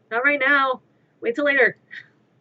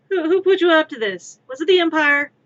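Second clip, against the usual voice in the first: mock accusing; 6 semitones higher, 7 dB louder than usual. Mock accusing meme dialogue.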